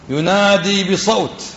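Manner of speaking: slow, drawn-out "ينادي بصوت"; emphatic quote. Real, not acted. Teacher quoting the Prophet's words to students, slow and emphatic. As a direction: stretch "ينادي بصوت" slowly so it sinks in.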